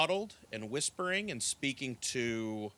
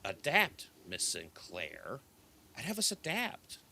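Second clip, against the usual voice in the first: put-on young elf; 3 semitones higher, 4 dB quieter than usual. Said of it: "And the young elf says".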